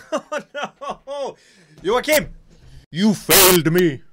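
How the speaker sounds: loud, laughing protest; laughing mock accusation against the friend; laughing outcry. Real, not acted. Trusted friend's answer wrong.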